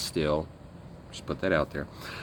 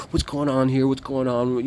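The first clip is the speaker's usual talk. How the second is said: loud, high calls of alarm; alarmed shout; 5 semitones higher, 4 dB louder than usual. Retold or imitated. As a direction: rush in demanding answers. Others run in alarmed.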